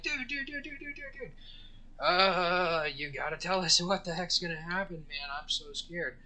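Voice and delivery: very high, frantic repeated pleading; panicked squeal. Retold or imitated. Terrified tourists begging the guide, frantic high squeal. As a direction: squeak out pure terror. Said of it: "they're like".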